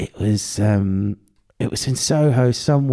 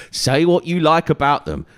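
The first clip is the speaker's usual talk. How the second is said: slow emphatic phrase; 2 semitones higher, slower than usual. Real, not acted. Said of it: "repeated phrase for emphasis".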